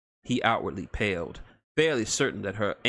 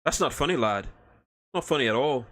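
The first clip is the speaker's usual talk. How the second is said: gruff Scottish-Irish dwarf; 4 semitones higher, 3 dB louder than usual. Acted. Dwarf offended by joke.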